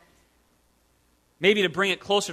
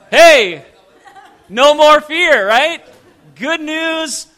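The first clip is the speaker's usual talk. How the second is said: loud, raised celebratory voice; big happy shout; jubilant; 6 semitones higher, 8 dB louder, slower than usual. Acted. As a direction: cheer it out, full of relief. Celebrates the imagined refund.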